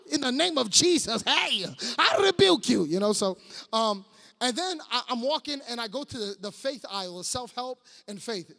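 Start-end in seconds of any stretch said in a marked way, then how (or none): 0.1-2.8 mock rebuke. Mock rebuke of weird aisle people.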